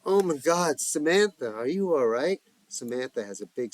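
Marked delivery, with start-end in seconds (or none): 0.0-2.4 panting after running in; out of breath. Acted. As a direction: gasp it, winded. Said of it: "Giselle huffing, out of breath".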